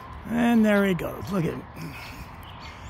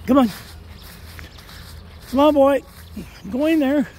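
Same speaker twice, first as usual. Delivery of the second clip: raised voice urging the dog on; calling the dog; 5 semitones higher than usual. Real, not acted. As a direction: call him over from a distance.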